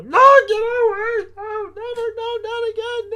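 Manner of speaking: high, loud Goofy-style panicked yelling. Retold or imitated. Retelling the snake lunge, yelling like Goofy. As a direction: scream it like a cartoon Goofy. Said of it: "I was like Goofy".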